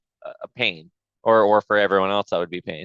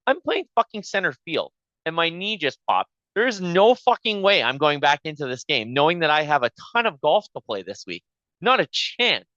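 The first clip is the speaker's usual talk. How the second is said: retold indignant refusal, pitched up; adamant refusal; 5 semitones higher than usual. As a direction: refuse flat out, voice rising in protest.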